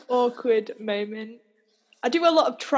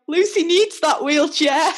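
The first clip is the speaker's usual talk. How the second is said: higher, drawn-out mock protest; retold indignant shout; 5 semitones higher, 4 dB louder than usual. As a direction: call it out slowly on the friends' behalf. Retold friends calling at driver.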